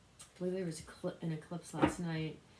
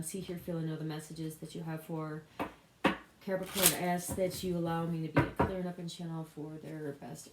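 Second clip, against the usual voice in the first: evenly recited personal prayer; spoken prayer. Real, not acted. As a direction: pray aloud in a steady, running litany. Leads an opening prayer.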